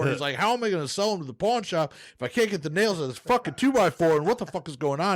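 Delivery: building worked-up rant; getting heated as the story escalates; impassioned. Acted. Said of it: "Very impassioned".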